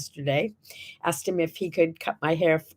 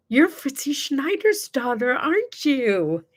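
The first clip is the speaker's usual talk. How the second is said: stranger woman; 5 semitones higher than usual. Retold or imitated. Stranger woman voiced in story.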